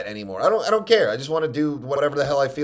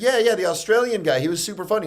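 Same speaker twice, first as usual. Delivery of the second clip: higher, eager imitation of her; chirpy mock phone chat, pitched up; imagined gal calling; 8 semitones higher, faster than usual. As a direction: lightly act out her keen agreement. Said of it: "She's gonna call and be like".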